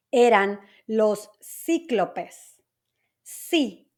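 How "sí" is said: "Sí" said as a lone, accented syllable; stress on the I. Shown as a demonstration. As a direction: isolate "Sí" and stress its I vowel. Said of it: "con acento en la I".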